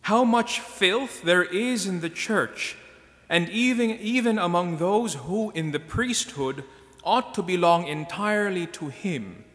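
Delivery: impassioned reading. Acted. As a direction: proclaim it with rising force. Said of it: "wrote, uh, this as part of his reflection".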